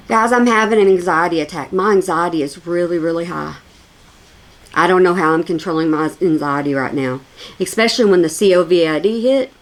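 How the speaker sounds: low, unbothered mock confession; imitating unconvincing panic. Commentator imitating streamer claiming anxiety attack, low and untroubled. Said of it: "is how she was".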